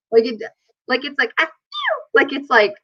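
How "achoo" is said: cutesy sneeze imitation. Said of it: "sounds like a cartoon character".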